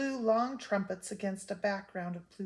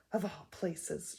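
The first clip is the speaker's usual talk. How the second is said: slow, a touch softer, wondering; wondering aside; 3 dB quieter, slower than usual. Acted. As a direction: muse on it slowly, as an aside. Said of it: "in a wondering aside".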